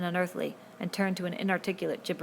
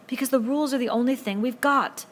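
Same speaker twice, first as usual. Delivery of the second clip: higher, louder appeal; earnest shout; 7 semitones higher, 7 dB louder than usual. A narrator's reading. Ralph insists loudly on the rules. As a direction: plead loudly with force. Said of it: "Ralph summoned his wits".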